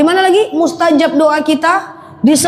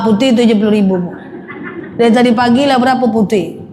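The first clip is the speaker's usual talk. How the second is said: laughing; 3 semitones lower, faster than usual. Real, not acted. Joking about lost nerves.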